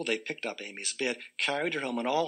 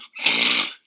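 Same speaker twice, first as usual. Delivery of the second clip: snore noise; 12 semitones lower, 8 dB louder than usual. Acted. Snore sound effect.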